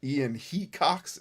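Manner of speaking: "Hecox" as HEE-cocks, slow and tentative; "Hecox" drawn out as HEE-cocks; unsure pronunciation. Shown as a demonstration. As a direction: sound out "Hecox" with a long ee first. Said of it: "Is that how you say his name?".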